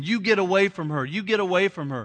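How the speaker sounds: put-on stern cry, imitated woman's scream. Retelling how a mom yelled at an attacker: imitating a woman screaming. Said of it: "rolls down her window and starts screaming".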